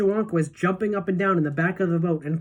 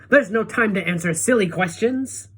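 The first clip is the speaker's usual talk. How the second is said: higher, louder brush-off; impatient call; 4 semitones higher, 5 dB louder than usual. A narrator's reading. Wonka dismisses the children's questions, impatient call. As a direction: wave the silly question away. Wonka continuing his shouted order.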